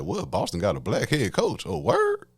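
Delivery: half-joking stunned squeak; shocked. Retold or imitated. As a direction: play the surprised fan lightly. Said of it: "I was like".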